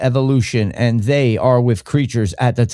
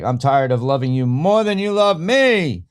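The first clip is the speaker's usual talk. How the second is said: mock heartfelt complaint. Mimics the angry woman from clip.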